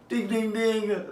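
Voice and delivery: high, sing-song ding; playful sing-song agreement; mock ding ding. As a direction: ring it like a game show bell. Agreeing with old man.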